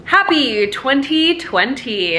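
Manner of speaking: slow, announcer-style delivery; news reporter voice. Shown as a demonstration. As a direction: say it like a TV news anchor. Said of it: "I sounded like a ... news reporter there".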